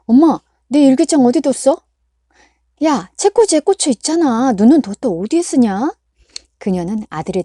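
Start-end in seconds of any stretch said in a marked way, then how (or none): 0.1-1.8 whiny demand. A narrator's reading. Son demanding. 2.8-5.9 scolding mother. A narrator's reading.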